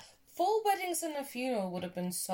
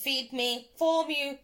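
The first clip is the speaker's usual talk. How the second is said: robot voice; 2 semitones higher, 3 dB louder than usual. Acted. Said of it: "I love that little robot".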